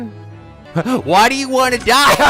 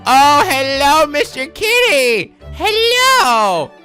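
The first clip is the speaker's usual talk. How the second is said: cutesy greeting; 5 semitones higher, 3 dB louder, much slower than usual. Real, not acted. Greeting the cat.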